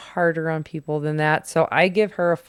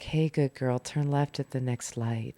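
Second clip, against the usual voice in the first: put-on seductive male voice, lower and quieter; 3 semitones lower, 7 dB quieter than usual. Describing TikTok driving directions, imitating a sexy male voice. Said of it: "sexy male voices like".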